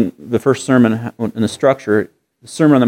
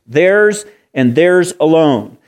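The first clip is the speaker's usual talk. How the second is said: "Theirs" drawn out slowly, each time weighted; slow emphatic "Theirs", then "theirs" stressed before "alone"; 2 semitones higher, much slower than usual. Shown as a demonstration. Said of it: "underline the word theirs three times".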